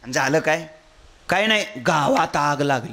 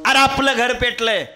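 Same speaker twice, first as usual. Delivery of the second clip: wailing cry; 6 semitones higher, 4 dB louder than usual. Acted. म्हातारा पुन्हा रडत ओरडतो.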